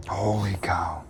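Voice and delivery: breathless whisper of amazement; awed whisper. Real, not acted. Angler gazing at the fish's mouth, awed whisper. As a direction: breathe it out in awe. Staring at the fish.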